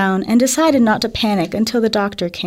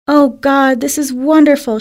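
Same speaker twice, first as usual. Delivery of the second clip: excited; 4 semitones higher than usual. Acted. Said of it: "she cried".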